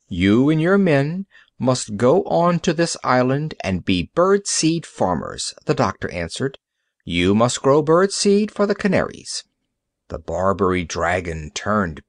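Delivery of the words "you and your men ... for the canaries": stern doctor. Acted. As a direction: lay down the law to a pirate. Doctor sentences the pirate.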